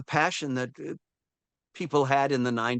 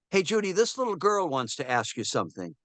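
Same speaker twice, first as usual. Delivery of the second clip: half-voiced shout to the stage; imitated lady's yell; 4 semitones higher than usual. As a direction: call out lightly as a lady in the audience. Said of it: "a lady yells out".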